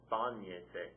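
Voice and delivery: "bañese" stressed on the BA; stress on first A. Shown as a demonstration. Teacher modelling a reflexive command, "bañese" stressed on BA. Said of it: "Accent mark over that first A".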